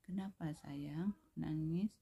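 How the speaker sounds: slow, gentle question; unhurried kindly teacher, lightly acted; pleasant, caring tone. Shown as a demonstration. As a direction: ask the crying child tenderly, rising at the end. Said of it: "bahasa yang enak didengar".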